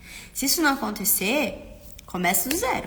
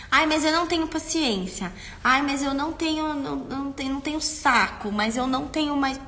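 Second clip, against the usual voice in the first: higher, whining excuse; whiny complaint; 4 semitones higher than usual. Retold or imitated. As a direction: moan that you've no patience left. Parent complaining of no patience. (reclamação chorosa de mãe cansada)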